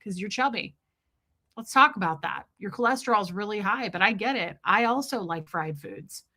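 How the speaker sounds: a hammed-up friendly doctor who starts bubbly. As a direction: gush like a chummy doctor bestie. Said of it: "be like".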